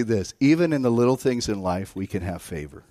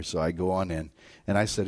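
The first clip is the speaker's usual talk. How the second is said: ordinary delivery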